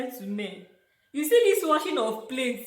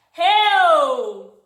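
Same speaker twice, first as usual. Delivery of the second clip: surprised; 7 semitones higher, 12 dB louder than usual. Real, not acted. Shocked at the dishwasher.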